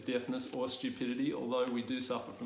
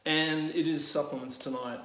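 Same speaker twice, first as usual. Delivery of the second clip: show host; slower than usual. Shown as a demonstration. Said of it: "let's do this properly".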